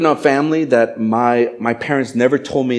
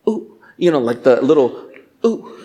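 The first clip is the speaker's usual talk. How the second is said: timid mock ooh. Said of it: "Not like".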